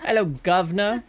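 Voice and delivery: mock cockney greeting in a fake British accent. Streamer demoing her fake British accent to chat. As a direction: ham up a fake British hello. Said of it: "that fake ass shit".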